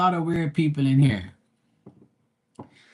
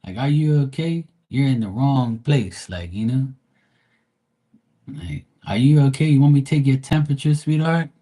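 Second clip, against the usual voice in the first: exasperated mock sympathy, rising up; mocking concern; 2 semitones higher, 3 dB louder than usual. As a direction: tease her like a nurse asking if she's okay. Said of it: "And I'm like".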